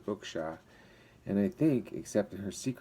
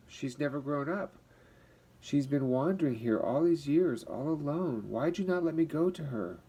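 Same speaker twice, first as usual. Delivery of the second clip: pleading distress; 5 semitones higher than usual. Acted. Frightened woman pleading after vision.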